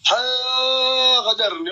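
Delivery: high, long-held outcry; cry of betrayal. Real, not acted. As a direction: wail it out high and slow. Cries out that he's betrayed. (صرخة عالية ممدودة)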